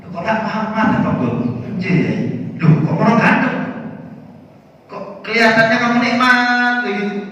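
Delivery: high, loud amazement; astonished kiai. Acted. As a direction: gasp in wonder at what you see. The kiai's astonished dream. (kiai takjub dengan suara tinggi dan keras)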